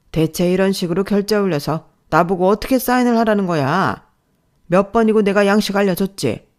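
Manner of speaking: loud exasperated scolding; angry boss. Acted. Boss scolds her for wrong form, loud and exasperated. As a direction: blast her over the form.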